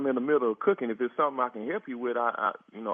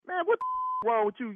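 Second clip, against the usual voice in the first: 1 laughing disbelief; 7 semitones higher, faster than usual. Real, not acted. Exasperated at absurd request.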